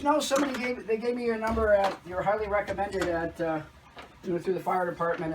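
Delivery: chatty lady voice, high at the start; high caller voice. Retold or imitated. Caller explaining the referral, high chatty voice. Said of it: "And she's like".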